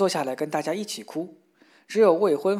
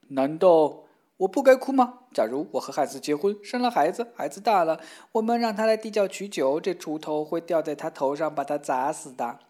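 mild crying; 3 dB louder than usual. Acted. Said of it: "哭成一团".

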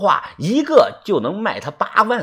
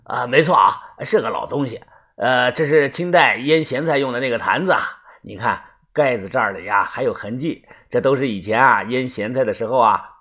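a hint of a lower-pitched village dealer; matter-of-fact appraisal, lightly in character; lightly voiced antique dealer; 4 semitones lower, 4 dB quieter than usual. (略压低嗓音的古董贩子)

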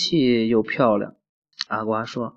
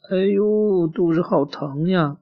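pretend tummy ache; 5 semitones higher than usual. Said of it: "假装肚子疼".

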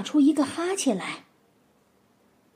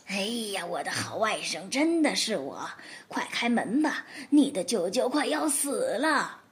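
pitiful pleading; 2 semitones lower, 4 dB quieter than usual. Acted. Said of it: "叶森格伦又变得可怜巴巴了".

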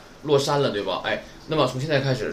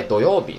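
土曜日 with 曜 raised high, then falling; high pitch on 曜; 3 dB louder than usual. Shown as a demonstration. Teacher adding a last weekday example, 曜 pitched high. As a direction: lift 曜 in 土曜日. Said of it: "都是这样的".

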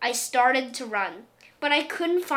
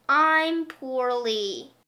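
slow, stretched, pitiful moan; milk the word poorly, slowly; drawn-out whine; 3 dB louder, much slower than usual.

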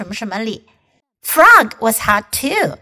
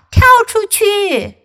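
high, loud cry to get out; shouting; 8 semitones higher, 4 dB louder than usual. Acted. Duck and frog warn the animals, shouting. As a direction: yell the warning. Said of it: "就大喊道".

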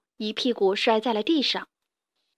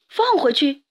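asking in chorus; 4 semitones higher, 4 dB louder than usual. A narrator's reading. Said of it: "他们齐声问道".

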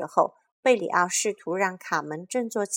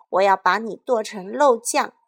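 我要把你剁成肉酱 shouted loud with weight on 肉, falling hard; all-out battle cry; shouting; 2 semitones higher, 7 dB louder than usual. Acted. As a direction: yell it full force at the monster. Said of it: "高喊道".

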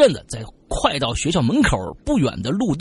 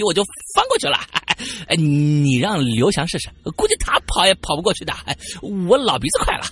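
剑南 tone; 5 semitones higher than usual. Retold or imitated. Friend boasts on the walk back about his jump, lightly cocky. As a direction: brag about your speed with cocky swagger. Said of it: "情不自禁就用剑南的这个，这个，这个，这个语气就说出来了".

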